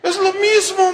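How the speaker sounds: high, loud mocking cry; loud retort. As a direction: shout it back at dad. Son replies loudly, teasing.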